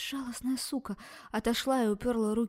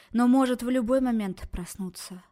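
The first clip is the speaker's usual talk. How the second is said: sudden loud warning; 3 semitones higher, 6 dB louder than usual. Acted. Doctor warning the girl about the beast, loud. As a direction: raise the voice on the danger.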